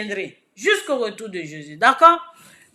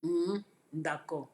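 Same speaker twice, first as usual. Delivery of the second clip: calm advice; 5 semitones lower, 6 dB quieter than usual. Retold or imitated. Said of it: "Il a dit".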